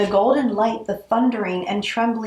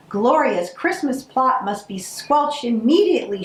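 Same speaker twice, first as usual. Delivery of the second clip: bellowing; 4 semitones higher than usual. Acted. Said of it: "she bellowed".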